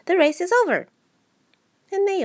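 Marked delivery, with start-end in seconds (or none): 0.1-0.9 1 called out. A narrator's reading. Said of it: "suddenly called out".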